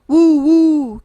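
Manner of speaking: high, loud owl call; owl hoot. A narrator's reading. Owl calls out as it comes to help, high loud hoot. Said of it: "came a cry in the distance".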